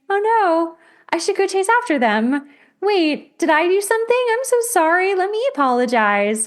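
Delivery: high, loud, frantic worry; anxious panic. Pretend. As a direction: panic that you did something wrong. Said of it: "if you're anxiously attached, you think".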